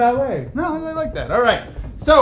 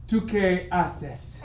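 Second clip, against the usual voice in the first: mantra; 5 semitones lower, 8 dB quieter, much slower than usual. Acted. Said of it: "I think to myself".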